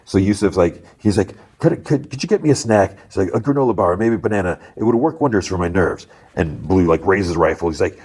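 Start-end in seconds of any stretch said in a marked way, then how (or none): 1.6-6.1 high, hesitant put-on voice; nervous bank man. Bank man asks an armed robber for a snack, high and nervous. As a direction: ask timidly, stumbling at the start.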